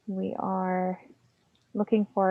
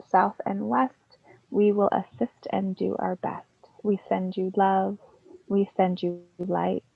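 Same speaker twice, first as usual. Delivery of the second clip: measured verse recital, leaning on each line's opening; anthem recitation; 4 dB louder than usual. Acted. Devotee reciting the circle's anthem to Gaia, reverent verse. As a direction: declaim it as a devotional rhyme, phrase by phrase.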